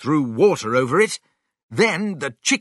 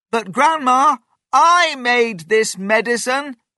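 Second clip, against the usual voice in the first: shrill, very high, insistent protesting shout; 10 semitones higher, 4 dB louder than usual. A grandson calls to his grandma, whose head is out through the roof: shouting. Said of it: "shouted George".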